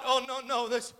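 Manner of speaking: a private whisper of a thought growing into a declaration; Jesus' inner thoughts. Retold or imitated. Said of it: "I wonder if in his mind he thought".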